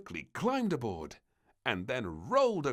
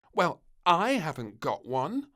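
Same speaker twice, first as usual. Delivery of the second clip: put-on little girl voice; 5 semitones higher, 8 dB louder than usual. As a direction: blame the cat sweetly. Princess insisting.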